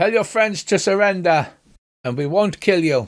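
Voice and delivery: put-on heavily accented Common, called out loudly. Voicing an enemy behind a wall calling to the party: shouting in a heavy accent. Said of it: "he shouts out in highly accented common".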